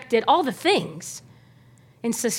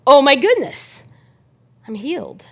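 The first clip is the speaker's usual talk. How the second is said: amazed realization; 4 dB louder than usual. Retold or imitated. Healed leper realizing he is healed, amazed. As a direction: realize the miracle mid-step.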